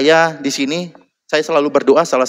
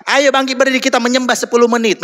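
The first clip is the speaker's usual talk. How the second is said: calling out; 10 semitones higher, faster than usual. Retold or imitated. Worship leader calling out.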